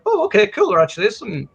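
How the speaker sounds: high, bright "oh" of mild surprise; a pitch jump on "oh", then back down; mock surprise. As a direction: pretend to be pleasantly surprised. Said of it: "then you're like".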